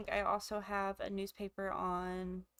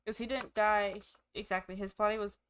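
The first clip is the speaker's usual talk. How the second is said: talking with hiccups; hiccuping between words; 3 dB louder than usual. Real, not acted. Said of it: "I have the hiccups".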